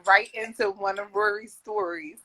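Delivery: playful show host introduction; mock announcer. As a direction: announce it like a master of ceremonies. Mock announcement of a story segment.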